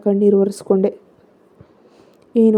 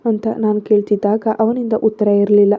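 ordinary delivery, nothing marked

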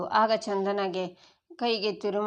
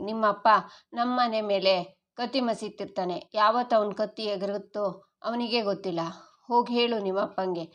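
angry last warning. Acted. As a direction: scold her hard and warn her off. Father gives angry last warning.

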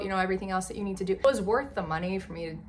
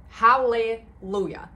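slow, louder celebration; joyful; 2 semitones higher, 7 dB louder, slower than usual. Real, not acted. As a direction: savor the win. Beat her goal score.

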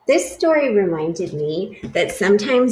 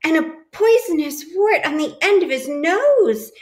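lightly raised, dramatic telling; a touch of spooky storyteller; 9 semitones higher, 5 dB louder than usual. A narrator's reading. Teacher reading to class, mildly dramatic telling. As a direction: build up the scary monster description. Mouse describing the Gruffalo.

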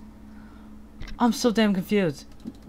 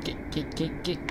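whispered; 5 semitones lower, 13 dB quieter than usual. Real, not acted. Whispered game action.

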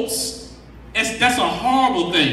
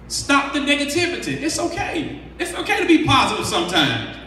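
gentle reassurance; 4 semitones higher than usual. Real, not acted. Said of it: "softening to reassurance".

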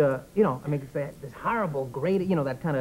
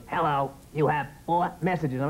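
metallic machine voice. Retold or imitated. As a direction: read it like a cold recorded machine. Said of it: "Metallic voice".

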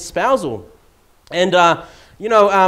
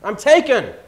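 announcing I'm married; 6 semitones higher, 8 dB louder than usual. Pretend. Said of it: "I want her to know".

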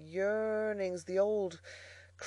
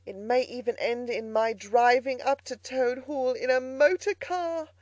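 a hint of Toad, pleased with himself, higher and a little louder; gleeful touch of Toad; lightly voiced boastful Toad; 6 semitones higher, 5 dB louder than usual. A narrator's reading. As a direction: lightly play a smug Toad scoring a point. Toad's boastful speech.

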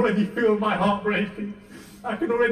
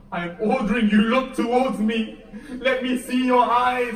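firm command; 3 semitones higher, 4 dB louder than usual. Acted. Zainab commands Abbas to look.

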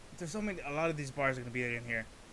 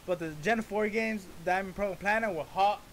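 high, loud laughing rant; excited rant; 7 semitones higher, 6 dB louder than usual. Real, not acted. Reactor rants about hating the Sinnoh games, high and loud. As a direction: gush and gripe at full energy.

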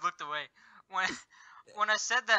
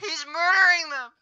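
alarmed; 9 semitones higher, 3 dB louder than usual. Real, not acted. Watching the murderer kill.

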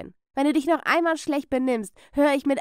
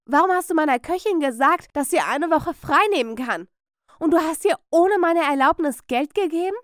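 higher, louder scolding; scolding yell; 5 semitones higher, 4 dB louder than usual. A narrator's reading. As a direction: berate her sharply. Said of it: "die Amelia anschreite".

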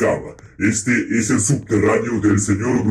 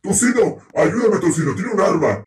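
mock panic; 9 semitones higher than usual. Player squealing at Tocino for help against the armed doll, hammed-up panic. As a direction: squeal for help as if a gun is pointed at you.

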